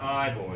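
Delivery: put-on wrong take saying "I boy" with EYE, then OY; mispronounced Newfoundland phrase. Shown as a demonstration. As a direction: say "I boy," last word rhyming with toy. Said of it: "it's not".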